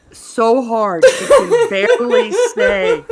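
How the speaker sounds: laughing hard while telling it; words squeezed out through laughter. Real, not acted. Telling friend's laughing reaction.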